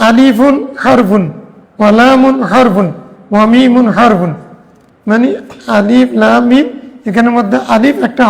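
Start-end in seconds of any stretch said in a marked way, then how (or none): 0.1-4.3 slow, each word apart, আলিফুন হরফুন lingered on; slow hadith recitation. Shown as a demonstration. Teacher reciting the hadith to students, slow and deliberate. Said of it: "বাল".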